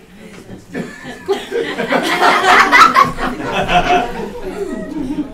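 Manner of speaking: long, high, loud laughing fit; real laughter. Real, not acted. Math teacher cracking up before a tongue twister, laughing.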